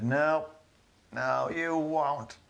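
high, slow and stern; a hint of a stern old witch. Witch refuses werewolf.

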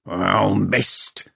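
mild, hissed annoyance; understated angry hiss; hissed frustration. A narrator's reading. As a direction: hiss it through the teeth in frustration. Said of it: "hissed Peavy".

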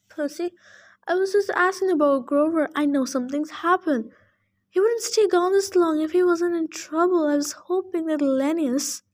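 worried tree nymph. Acted.

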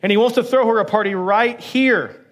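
eager calling-out, lifting at the end; excited call. Retold or imitated. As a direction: call her out from the kitchen, half-shouted. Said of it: "shouts at his wife".

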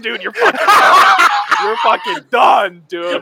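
laughing tease. Real, not acted. Teasing friend about jail.

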